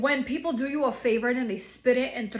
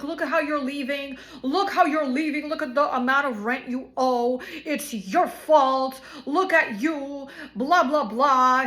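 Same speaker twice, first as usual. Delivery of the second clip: mock yelling lawyer. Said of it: "she was yelling at us".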